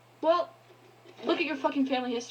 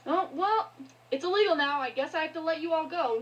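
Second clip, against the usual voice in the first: mocking slave owner voice, pitched higher; mocking slaveowner; 6 semitones higher than usual. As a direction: sneer it like a careless old master. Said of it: "were just like".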